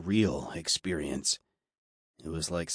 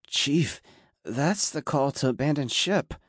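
put-on high, squeaky young crewman, voice near cracking; scared squeak; 6 semitones higher than usual. A narrator's reading. Young serviceman warning his chief to abandon ship, squeaking. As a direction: squeak it out in alarm, pitched up. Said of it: "F S three Clark squeaked, his voice cracking".

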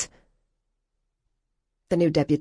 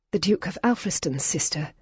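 wobbling voice. Acted. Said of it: "Cordelia's voice wobbled".

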